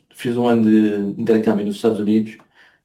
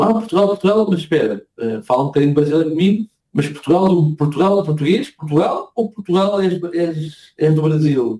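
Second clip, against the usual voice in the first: mock confused Argentine, pitched higher; higher-pitched mimicry of a confused Argentine stretching out the last words; imitating Argentines; 5 semitones higher than usual. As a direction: play the puzzled local asking again and again. Imitating Argentines asking about Portugal.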